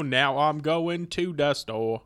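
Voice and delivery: usual speaking voice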